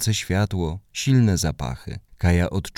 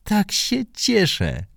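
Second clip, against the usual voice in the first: much higher, overjoyed mother's voice; mother hugs daughter after her first slide, delighted; joyful mother; 14 semitones higher than usual. A narrator's reading. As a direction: praise your daughter, bursting with joy. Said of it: "zawołała".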